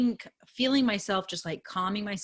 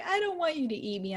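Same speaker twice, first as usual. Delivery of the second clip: put-on frightened child voice; 10 semitones higher than usual. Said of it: "she's like".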